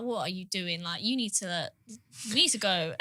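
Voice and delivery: low, hushed urging; hushed sister. Retold or imitated. Sister quietly urging her to leave the queue, hushed. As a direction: pull her away quietly.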